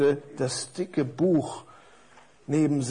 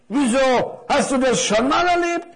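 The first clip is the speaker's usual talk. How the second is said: curious big parcel; 9 semitones higher, 4 dB louder than usual. Acted.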